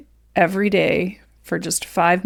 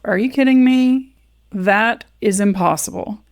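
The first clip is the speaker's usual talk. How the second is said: mock-outraged inner protest; incredulous; 2 semitones higher than usual. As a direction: recall your own protest, incredulously. Acting out her disbelieving thought.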